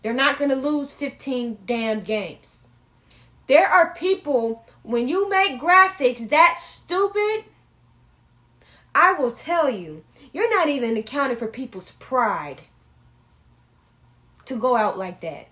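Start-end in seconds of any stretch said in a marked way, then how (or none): 3.5-11.4 indignant rant. Real, not acted. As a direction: lean into the outrage. Ranting about stupid graphic.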